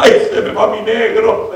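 high, drawn-out mock wail; imitating frightened wife. Preacher voicing his wife at the hospital, mock-frightened. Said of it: "mi esposa asustada".

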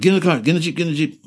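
high urgent yell to get in the Jeep; retold shout. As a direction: bark the order to get in the Jeep now. Turns and yells at his men.

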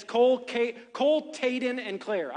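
"Taden" said with T in place of K, names run together; child's mispronunciation. Retold or imitated. Uncle quoting his four-year-old nephew's names for his cousins, child's mispronunciation. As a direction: imitate a small boy saying "Taden" with a T for the K sound. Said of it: "when he says Caden, it's Taden".

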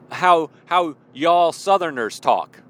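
slowly, choosing words carefully; drawn out, a careful self-correction. Real, not acted. Vlogger correcting himself slowly, mid-laugh, carefully. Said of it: "I should say, to be appropriate".

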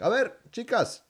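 high-pitched imitated call to a group; playful mock hail across a plaza. Dad calling the girls over in Spanish, hailing.

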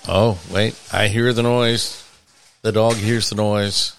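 lightly done sportscaster play-by-play; Howard Cosell. Pretend. Host calling the dog's dinner like a game, lightly voiced sportscaster. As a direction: call the action in short, measured bursts, slowing at the end. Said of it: "You sound like Howard Cosell".

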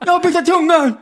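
high, loud garbled repeat; swollen-tongue speech. Retold or imitated. Man repeating it to his uncomprehending friend, distressed garble. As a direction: plead to be understood, tongue swollen. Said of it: "Så jag kan ju inte prata".

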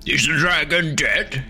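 high, slow echoing monster voice; distant creature calling out; bickering voices. Acted. Dragon heads bickering down corridor.

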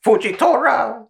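high, slow furious yell; angry yell. Retold or imitated. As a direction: bellow the name at him. Mocking Akainu yelling at Fujitora.

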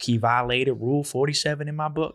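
lightly put-on hard-nosed coach reading the rule; mild Cleveland-style coach impression. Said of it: "That was your Cleveland accent".

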